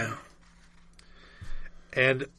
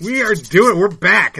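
excited; 4 semitones higher, 9 dB louder than usual. Real, not acted. Excited podcast return.

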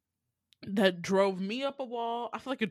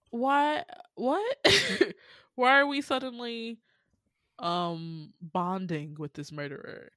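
high, laughing "Why? What?" in disbelief; baffled disbelief; 4 semitones higher, slower than usual. Retold or imitated. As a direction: squeak out confused outrage, then drop down. Baffled reaction to odd scene.

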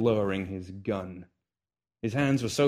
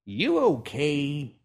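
put-on old man's voice; 6 semitones higher, 3 dB louder, much slower than usual. Old man asks Hiccup.

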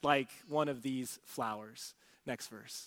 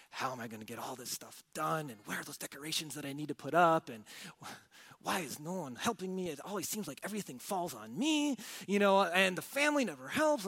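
stressed mom; 6 dB quieter, faster than usual. Acted. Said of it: "ask yourself all these questions".

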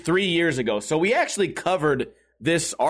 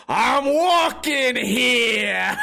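drawn-out, higher-pitched mock Italian-American accent; 5 semitones higher, much slower than usual. Drunk man making fun of a stranger's accent, hammed-up Italian. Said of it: "making fun of his accent".

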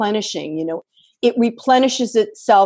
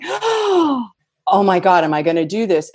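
giddy disbelief. Retold or imitated. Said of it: "I start giggling".

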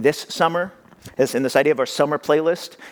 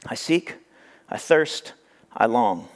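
quiet prayer; 3 semitones lower, 3 dB quieter, slower than usual. Real, not acted. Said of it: "prayer spoken".

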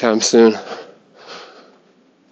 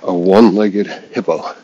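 joke setup; 4 dB louder than usual. Acted. Dad joke setup, then repeated.

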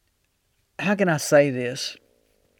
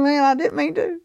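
mock startled excuse; 10 semitones higher than usual. Retold startled apology.

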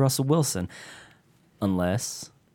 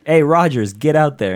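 coach pep talk; 5 semitones higher, 6 dB louder than usual. Retold or imitated. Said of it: "He's like".

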